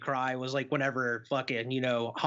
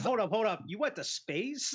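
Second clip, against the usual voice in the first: mock disbelief; 6 semitones higher than usual. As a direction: act out a stunned double take, stretching the question. Acting out astonished movie quote.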